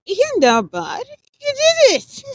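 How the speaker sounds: high, loud harsh shout; loud rebuke. Acted. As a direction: shout her down. Alan scolding shrieking woman.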